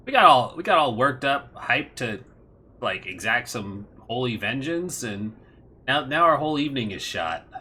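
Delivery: lightly voiced let-down villain; deflated villain. Villain hyped for vengeance finds evening spoiled, comic letdown. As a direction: complain with lifted, petulant disappointment.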